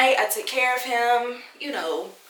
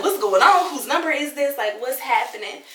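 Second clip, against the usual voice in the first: frantic questions; 3 semitones higher, 3 dB louder than usual. Retold or imitated. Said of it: "fight or flight mode".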